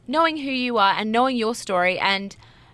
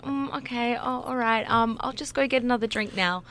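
hesitant, softly trailing mock small talk; awkward; 2 semitones higher, 4 dB quieter than usual. Awkward date with both just sitting there, mock awkward mumbling. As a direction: act out a stilted, unsure lull. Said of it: "And it is awkward".

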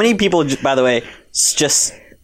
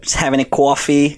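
tentative attempt at New York speech; New Yorker accent. Shown as a demonstration. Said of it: "Do a New Yorker accent".

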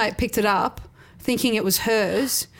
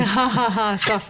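sneering panto villain. Retold or imitated. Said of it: "when Mister Burns".

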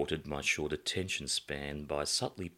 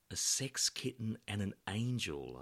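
softer, hesitant murmur; timidly; 4 semitones higher, 7 dB quieter than usual. A narrator's reading. Narrator timidly remarks to his friend on the hosts. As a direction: say it under your breath, unsure. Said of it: "I timidly said".

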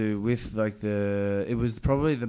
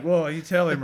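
mock cheering; 5 semitones higher, 7 dB louder than usual. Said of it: "I was like".

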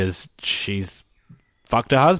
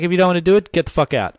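a raised, rough bark at the room; gruff director yell; 7 semitones higher, 4 dB louder, faster than usual. Retold or imitated. Director shouting at the hopeful wrestlers, loud and rough. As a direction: tell them to get out or leave, loudly.

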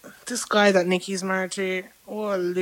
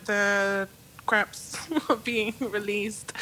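trying not to laugh; 4 dB quieter, much slower than usual. Real, not acted. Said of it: "Stop making me laugh".

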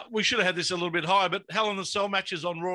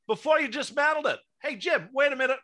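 a hammed-up, higher fake American accent; a failed East Coast American voice, pitched up; bad American accent; 7 semitones higher than usual. Hosts mocking a promoter with a bad American accent. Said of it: "I would hate to know what accent that was meant to be".

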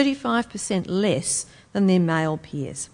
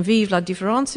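attempted French accent; French phrase in a rough French accent. Real, not acted. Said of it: "my shocking French accent".

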